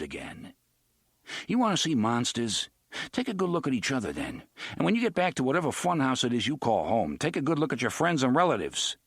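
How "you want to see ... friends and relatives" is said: fast, bitter rebuke; bitter scolding. Acted. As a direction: scold them with contempt. Eddie scolds the old folks.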